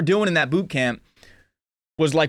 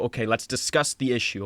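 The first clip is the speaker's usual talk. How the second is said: composed, measured offer to talk; calmed down; 3 dB quieter than usual. Retold or imitated. Speaker answering someone who upset him, deliberately calm. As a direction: keep any upset out of the voice. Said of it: "I'm going to calm down verbally".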